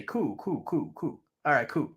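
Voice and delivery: nervous cools. Retold or imitated. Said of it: "That's all I would always say".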